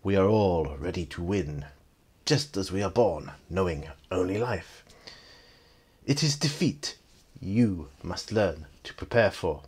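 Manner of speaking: deliberate phrases with weighty gaps; lightly imitated wise villain; Mister Han. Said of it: "Han sort of nods and says".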